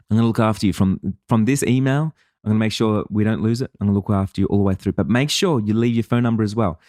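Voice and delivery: a light friendly host reading out a sample script, close to his own voice; contact page video script. Shown as a demonstration. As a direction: talk the visitor kindly through the next steps. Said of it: "Here's the script".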